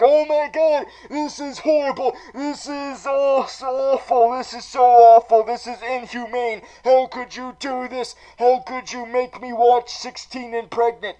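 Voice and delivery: high, wailing, laughing Penguin horror; horrified Penguin. Acted. Penguin forced to watch the show, high laughing wail. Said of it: "Penguin looks at the reality show and is like".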